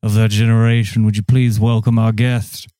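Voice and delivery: announcing an honored guest; grand host introduction; talk show host. Acted. Hosts a mock talk show.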